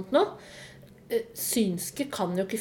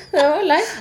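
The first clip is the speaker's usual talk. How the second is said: much louder, laughing through it; laughing at own joke; 11 semitones higher, 4 dB louder than usual. Real, not acted. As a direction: crack up at your own pun. (ler av sin egen vits)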